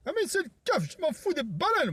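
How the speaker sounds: high, shrill-free cartoonish yelling voice; high squeaky voice. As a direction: pitch way up like a cartoon. High-pitched character voice.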